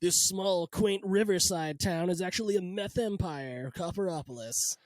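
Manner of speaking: slow, dramatic crime-show trailer read; mock TV trailer narrator. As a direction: tease it like a Showtime promo. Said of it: "a whole season of that show Ozark".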